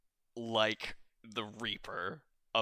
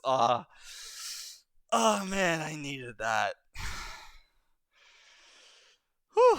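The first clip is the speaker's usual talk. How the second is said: winding down from laughter; 3 semitones higher, 3 dB louder than usual. Acted.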